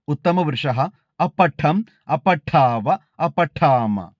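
measured, even chanting of each case form; model recitation. Shown as a demonstration. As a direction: recite the declension slowly, like a student at a recitation contest. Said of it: "നമുക്ക് നോക്കാം". (മാതൃകാ അവതരണം, ഓരോ രൂപവും താളത്തിൽ ചൊല്ലുന്നു)

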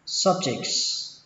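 "Subjects" dropping in tone on "jects". Shown as a demonstration. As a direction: let the voice fall on the end of "Subjects". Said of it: "Xuống giọng âm thứ hai".

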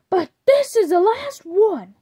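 high, loud stern warning; exasperated shout. Acted. Father telling his daughter this friend is the last one, high loud shout. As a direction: lay down the law, loud and high. Father laying down final rule.

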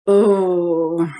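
long drawn-out "oh" of rage; frustrated groan. Real, not acted. Client tells therapist of her rage, groaning in frustration. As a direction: let pent-up anger out in one groan.

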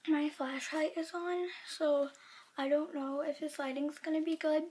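talking around a retainer; slightly lisped words through a retainer; wearing a retainer. Real, not acted. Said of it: "And I have my retainer in".

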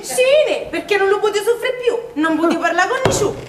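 laughing, quick relieved confession; laughing relief. Acted. (confessione ridendo, sollevata)

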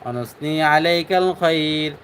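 slow, drawn-out chanted Arabic prayer; measured tajweed recitation, every vowel stretched; Quran-style recitation. Shown as a demonstration. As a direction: recite the qunut slowly and melodically.

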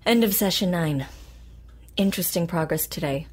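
clinical recorded log; dictated notes. Acted. Therapist dictating notes after the session, clinical. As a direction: read it like a case file dictation.

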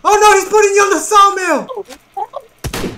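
mock-alarmed high shout; hammed-up heroic shout. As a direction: call out like a melodrama hero. Plays rescuer of the victim.

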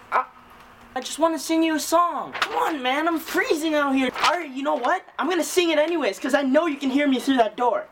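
eager caroler. Acted. Carol singer at a door.

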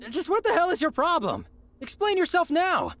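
angry demand. Acted. Hero demanding the intruder explain herself, angry. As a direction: demand answers, furious now. Confronting the stranger.

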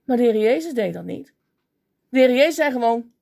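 normal talking voice

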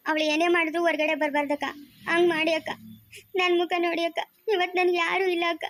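acted weepy appeal to an elder sister; tearful pleading. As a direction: plead through tears. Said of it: "ಅಳ್ಬೇಡ".

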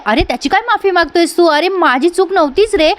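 mock-hurt protest; indignant protest. Heroine scolds brother for apologising.

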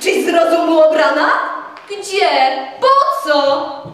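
loud, incredulous questions; indignant outburst. A narrator's reading. Tadeusz rejecting Telimena, loud and indignant. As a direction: fire each question back at her. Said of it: "wydarłszy się z objęcia przemocą".

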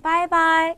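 빠이빠이 with the tone lifted, not falling; everyday 빠이빠이, pitch held up; spoken second tone. Shown as a demonstration. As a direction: read 빠이빠이 in conversational second tone. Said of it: "읽을 때는 이성으로".

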